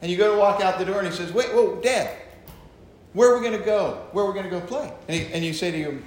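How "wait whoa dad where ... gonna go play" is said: son's voice. Acted. Son's quoted question to father.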